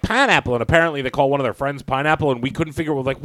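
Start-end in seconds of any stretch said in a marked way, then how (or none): 0.0-0.5 lightly voiced kid, a bit higher; imitated giggly kids. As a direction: lightly imitate kids blurting a silly word. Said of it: "they start laughing. They're like".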